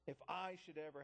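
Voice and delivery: "I" stressed above the other words; emphasize "I" in the phrase. Acted. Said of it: "I emphasize the word".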